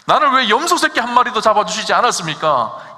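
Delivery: loud, aggrieved protest from the elder son; the elder son protests to his father, loud and aggrieved; resentful complaint. Acted. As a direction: demand it like a wronged son. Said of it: "이렇게 묻잖아요".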